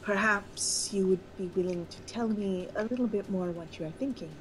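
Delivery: light ghostly voice, formal and diplomatic. Acted. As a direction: speak as an otherworldly spirit, gently. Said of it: "I would like to use my ghost voice".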